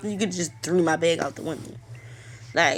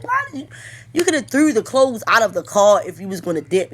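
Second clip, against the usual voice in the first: shocked exasperation; 2 semitones higher, 5 dB louder than usual. Retold or imitated. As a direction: squeal of disbelief at the thief. Retold outburst at the thief.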